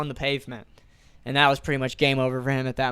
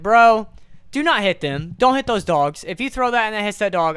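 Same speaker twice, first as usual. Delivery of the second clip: put-on raised, warning voice at the kid; louder and louder, fast by the end; retold warning yell; 4 semitones higher, 4 dB louder than usual. Warning a neighbour kid off his dogs, loudly.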